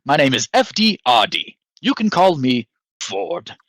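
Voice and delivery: lightly voiced helpful robot, eager to introduce itself; droid voice. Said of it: "And it says".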